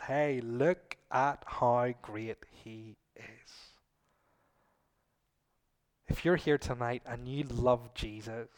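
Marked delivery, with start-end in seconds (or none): 0.1-3.7 gentle invitation. Acted. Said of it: "The Spirit lights up Jesus and says".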